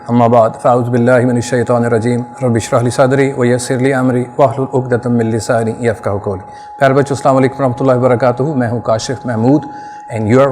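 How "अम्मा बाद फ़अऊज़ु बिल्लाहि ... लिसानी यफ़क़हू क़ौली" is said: recited Arabic invocation, steady and formal; formal prayer opening. Acted. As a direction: open with a quick devotional recitation.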